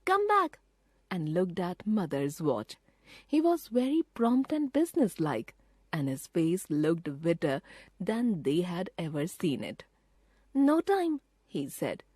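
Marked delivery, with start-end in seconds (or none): 0.1-0.6 put-on high, louder boy's call; cried out. A narrator's reading. Peter calling Bobby back, a loud urgent cry. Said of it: "But Peter cried". 10.5-11.2 put-on higher urgent boy's voice; a boy realising the danger; boy Peter, urgent. A narrator's reading. Peter warning his sisters about the train, urgent.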